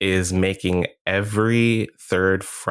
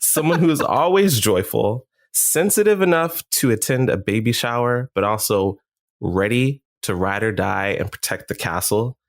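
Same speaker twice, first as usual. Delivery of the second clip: hype man. Acted. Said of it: "you are the hype man for Gingerbread Man".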